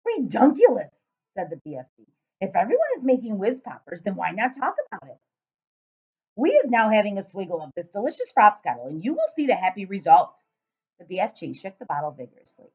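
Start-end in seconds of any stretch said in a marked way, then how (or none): 0.1-10.4 loud giant voice. Acted. Giant questioning the girl, booming and puzzled.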